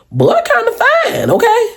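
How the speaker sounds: high-pitched surprised purr; impressed. Retold or imitated. Telling friends how fine the dude looked, impressed. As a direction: let it slip out, pleasantly shocked.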